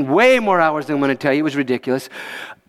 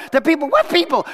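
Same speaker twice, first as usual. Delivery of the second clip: surprised; 11 semitones higher than usual. Retold or imitated. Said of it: "I said".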